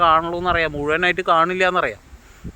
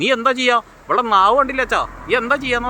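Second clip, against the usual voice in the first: much higher and louder, mock furious challenge; husband threatening his wife with a raised hand, mock fury; imitated angry threat; 8 semitones higher, 3 dB louder than usual. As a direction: hurl it at her like a threat.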